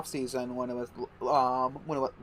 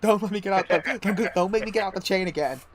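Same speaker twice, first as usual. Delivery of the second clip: raised-pitch hammed-up tirade; mock yelling; 6 semitones higher than usual. Joking as the host bossing his lodger, mock yelling. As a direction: play an abusive boss ordering someone about. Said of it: "it's just you yelling".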